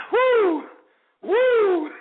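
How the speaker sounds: loud high party whoop; frat bro whoop. Real, not acted. Celebrating finished chug.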